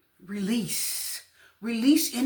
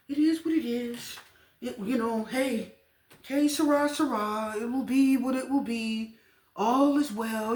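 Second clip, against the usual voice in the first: lightly imitating carefree listeners, drawn out at the end; a hint of an easygoing, unbothered believer; lightly voiced serene acceptance. Tarot reader mimicking unbothered Taurus listeners, lightly carefree. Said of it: "kinda talking like that".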